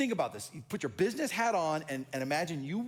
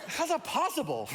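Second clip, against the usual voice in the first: high, laughing disbelief; a baffled pastor hearing the range, high and laughing; 11 semitones higher, 4 dB louder than usual. Retold or imitated. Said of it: "And they're like".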